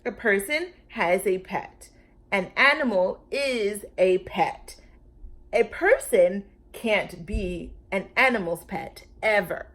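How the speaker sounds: loud, emphatic, lecturing; bossy. A narrator's reading. Lulu lecturing the Brontosaurus, loud and bossy. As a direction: lay down the law like a bossy kid. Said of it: "its old bossy self".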